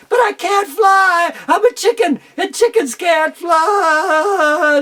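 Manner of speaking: high, loud, slow frightened wail; panicked cry. Acted. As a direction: cry out while tumbling from the sky. Baby eagle falling, panicking.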